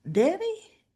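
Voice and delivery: high questioning call across the room. Retold or imitated. Andre steps out and calls for Danny, high questioning call.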